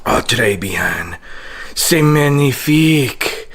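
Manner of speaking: fake French accent. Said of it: "fake French, Italian, whatever accent".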